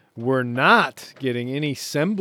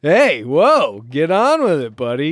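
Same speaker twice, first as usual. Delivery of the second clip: brisk self-chiding call; inner pep talk; 2 semitones higher, 6 dB louder than usual. Acted. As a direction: tell yourself off like an impatient buddy. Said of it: "part of your brain that says".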